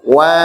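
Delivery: WA with a light, thin vowel. Shown as a demonstration. Teacher models Wa for the class, kept thin. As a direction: keep Wa light, not heavy. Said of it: "Itu tebal. Tapi yang betul".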